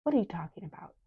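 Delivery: unvoiced whisper. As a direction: breathe the question in a whisper. Skiva questions the fight.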